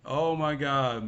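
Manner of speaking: drawn-out, weary exasperation; angry exasperation. Real, not acted. Venting to viewers after screaming, slow exasperated anger. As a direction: stretch the words out slowly in frustration. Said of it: "I'm fucking angry".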